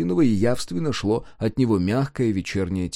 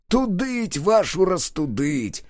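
slow, muttered oath through teeth; muttered curse; 6 semitones higher, slower than usual. A narrator's reading. Driver curses under his breath, slow muttered oath. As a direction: grind out the curse slowly. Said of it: "процедил Бермята".

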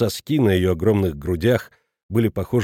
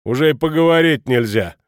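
retort; 3 semitones higher, 5 dB louder than usual. A narrator's reading. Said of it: "осадил её Шмидт".

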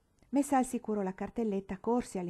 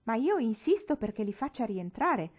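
louder insisting demand; furious shout; 3 semitones higher, 6 dB louder than usual. Acted. Father insisting to the governess, angry and loud. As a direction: press the point, angry. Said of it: "gridò avvicinandosi con l'aria furiosa".

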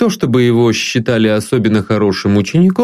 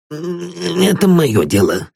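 commanding; 8 semitones higher, slower than usual. A narrator's reading. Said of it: "неожиданно властным тоном".

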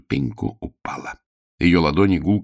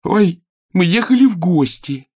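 high, loud frightened blurt; girl under torture making excuses; frightened cry; 12 semitones higher, 6 dB louder than usual. Acted.

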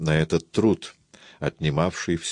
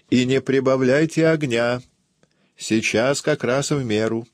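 higher-pitched call through the door; 7 semitones higher than usual. A narrator's reading. Aunt warns the cook about the fire, calling out. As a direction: call out a further order to the kitchen. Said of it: "крикнула".

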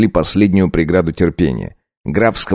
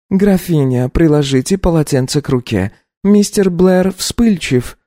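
high, slow gentle servant voice; careful and respectful; Sara, timid maid; 10 semitones higher than usual. Acted. Maid brings a cold compress to the countess.

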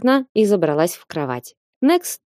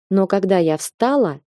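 usual speaking voice

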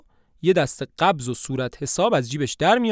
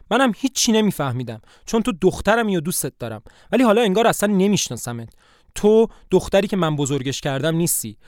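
a touch of hurt anger; hurt and angry; 3 semitones higher, faster than usual. Acted. Mother to lying daughter, mildly upset and reproachful. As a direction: scold her lightly, wounded more than furious. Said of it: "با ناراحتی و عصبانیت میگه".

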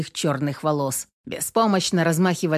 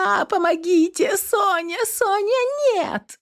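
much higher, frantic crying wail; senseless wailing; slower than usual. A narrator's reading. Girl on the balcony wailing for Sonya, hysterical. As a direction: howl her name over and over. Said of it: "бестолково вопила девица".

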